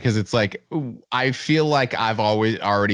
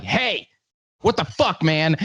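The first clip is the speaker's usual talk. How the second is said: high, aggressive mock confrontation; mock angry challenge; 5 semitones higher than usual. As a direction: play the furious roadie picking a fight. Crew guy confronting someone.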